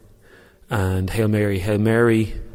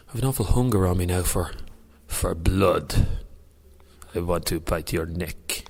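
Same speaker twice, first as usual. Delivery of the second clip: lightly voiced hungry Dracula; Count Dracula. Joking to Dave after the prayer challenge, lightly voiced Dracula. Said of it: "That's my Count Dracula impression".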